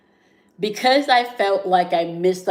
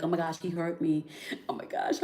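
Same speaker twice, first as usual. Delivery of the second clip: hushed inner voice; 8 dB quieter than usual. Retold or imitated. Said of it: "feeling like".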